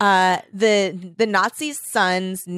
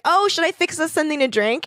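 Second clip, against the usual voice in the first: higher, sweet hostess offer; sweet Linda; 8 semitones higher than usual. Pretend. Girlfriend offering drinks in the hut, sweetly voiced. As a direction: play the helpful girlfriend, lightly.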